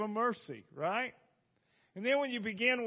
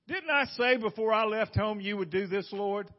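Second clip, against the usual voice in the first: sarcastic; 4 dB louder than usual. Acted. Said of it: "That's a little sarcastic".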